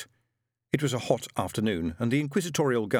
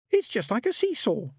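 put-on high, gleeful child's voice; high-pitched childish delight; delighted little girl; 14 semitones higher, 3 dB louder than usual. A narrator's reading. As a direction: marvel at a playground ride. Child enjoying the ducking stool.

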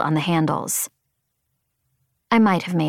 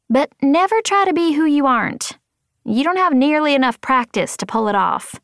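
higher, lilting mentor voice; lightly voiced wise mentor; 8 semitones higher than usual. A narrator's reading. Kimmelin advising Sadie, sage mentor voice.

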